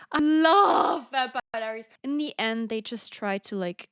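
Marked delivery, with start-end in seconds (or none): 0.1-1.9 excited. Real, not acted. Gushing about favorite show.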